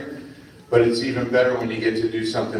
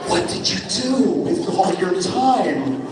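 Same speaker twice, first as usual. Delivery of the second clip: put-on kid asking; 7 semitones higher than usual. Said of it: "I go".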